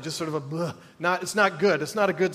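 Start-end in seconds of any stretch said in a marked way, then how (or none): 0.4-0.7 groan sigh. Shown as a demonstration. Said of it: "I don't even know what a groan sigh sounds like".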